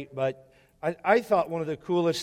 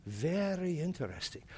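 imitating old man; 12 dB quieter than usual. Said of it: "and he goes".

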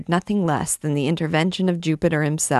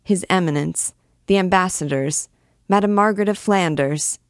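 stammering; 3 semitones higher than usual. Acted. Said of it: "stammered out".

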